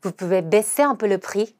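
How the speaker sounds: slow, "baisser" stressed; slow model sentence; slow repeat. Shown as a demonstration. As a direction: say again slowly. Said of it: "한 번 더".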